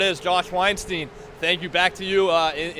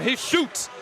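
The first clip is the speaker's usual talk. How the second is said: excited goal call; 9 semitones higher, slower than usual. Real, not acted. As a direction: explode as the puck goes in. Goal scored, commentator erupts.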